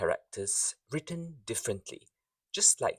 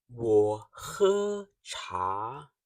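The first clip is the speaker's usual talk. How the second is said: plain; 3 dB louder, much slower than usual. Shown as a demonstration. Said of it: "listen carefully and speak with me".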